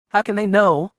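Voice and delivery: stunned cry of disbelief; shocked outburst. A narrator's reading. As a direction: burst out in alarmed disbelief.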